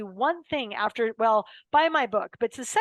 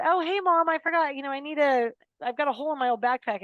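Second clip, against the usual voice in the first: put-on chirpy child; 4 semitones higher, faster than usual. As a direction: bubbly kid asking casually. Child chirpily asking for backpack.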